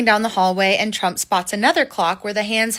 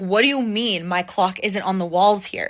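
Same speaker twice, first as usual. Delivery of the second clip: normal talking voice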